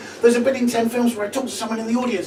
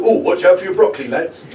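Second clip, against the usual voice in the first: mock loutish heckle, a little louder; heckler voice; 4 semitones lower, 5 dB louder than usual. Hecklers at the back jeering at the comic, mock loutish jeer. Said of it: "two homophobic pricks in the back go".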